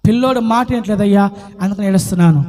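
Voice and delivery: low, hurried mock-plaintive reply; mock weeping answer. Parent complaining to the Lord about a child, mock plaintive. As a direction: drop low and mumble a pretend sob story.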